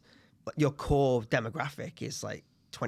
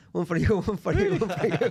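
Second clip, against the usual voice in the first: put-on Italian accent; 6 semitones higher, 4 dB louder than usual. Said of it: "very Italian man".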